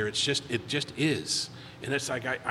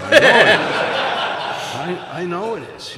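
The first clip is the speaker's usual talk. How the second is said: breathy laugh through the words; laughing at the odd coincidence; 3 semitones higher, 9 dB louder, slower than usual. Real, not acted. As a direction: laugh it out in disbelief. Laughing disbelief at weird coincidence.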